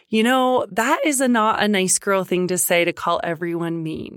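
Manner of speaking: put-on mildly judgy parent lecturing a child; over-explain with a touch of judgment. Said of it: "get overly explaining a judgy way".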